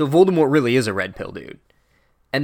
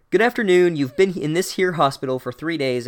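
hammed-up headmaster; 4 semitones higher, 4 dB louder than usual. Dumbledore greets waking Harry.

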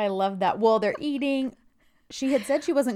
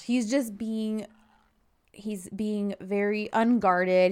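slow savoring; slower than usual. Real, not acted. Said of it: "slow savoring of the moment".

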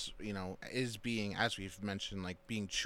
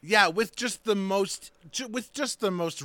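animated horror; 8 semitones higher, 8 dB louder than usual. Real, not acted. Horrified, animated doll description.

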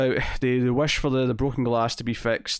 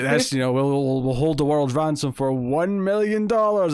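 lightly voiced movie villain, pitch rising on the demand; a hint of a grandiose villain making his ransom demand; Doctor Evil; 3 semitones higher, 3 dB louder than usual. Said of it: "When Doctor Evil comes out of".

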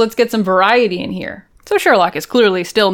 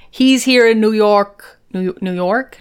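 put-on slow, unsure stab at a Scottish accent; badly faked Scottish; attempted Scottish accent; slower than usual. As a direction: try a Scottish accent and doubt it. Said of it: "I don't know how to do a Scottish accent".

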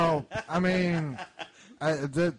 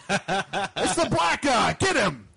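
mock accusing yell; 7 semitones higher, 5 dB louder, much slower than usual. Imagined accusing outburst, retold.

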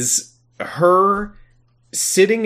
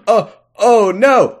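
slow, drawn-out mock alarm; hammed-up slow oh no; mock dread; 5 semitones higher, 3 dB louder, much slower than usual. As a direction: drag it out, hammed-up worry. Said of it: "she's just like".

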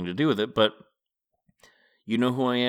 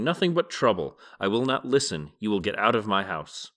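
angry shout. Acted. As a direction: drive the guest out angrily. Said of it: "he was shouting".

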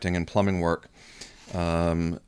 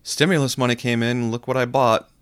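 higher, louder boastful show-off; bragging; 5 semitones higher, 5 dB louder than usual. Retold or imitated. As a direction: crow about a new purchase. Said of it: "people who are saying".

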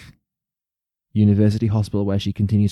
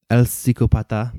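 put-on Spanish accent; 2 semitones higher than usual. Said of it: "I like saying things in Spanish accents".

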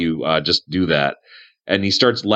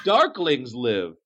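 high, swooping voice of an odd survivor; Aniston, dotty cave hermit. Acted. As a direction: play the eccentric hermit, pitched up and sing-song.

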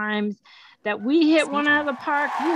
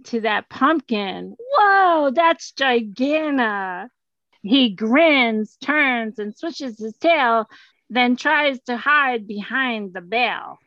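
dramatic reading; slower than usual. Acted. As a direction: read it big and slow for the room.

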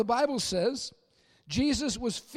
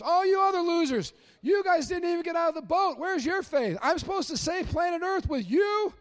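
taunting, higher and louder, jeering loser over and over; mocking harsh Jesus; 5 semitones higher, 4 dB louder than usual. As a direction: sneer at Peter like a disappointed bully. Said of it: "Here's how most of us ... picture that".

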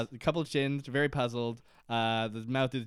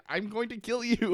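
Desmond; 8 semitones higher, 3 dB louder than usual. Retold or imitated. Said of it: "And Desmond's just like".

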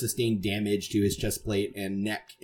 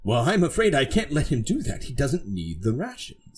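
lightly voiced self-important knight; haughty knight, refusing; 5 semitones higher than usual. Knight refusing to leave someone alone, mildly haughty. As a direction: refuse with a touch of pompous regret.

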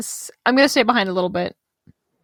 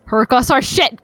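loud, blunt outburst; frustrated adventurer snapping about the goddess; angry outburst; 3 semitones higher, 5 dB louder than usual. Acted. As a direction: blurt it out louder. Character outburst at NPC.

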